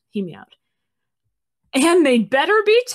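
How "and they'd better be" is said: slow, louder growl. Acted. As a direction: growl the warning slowly. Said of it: "Berryheart growled".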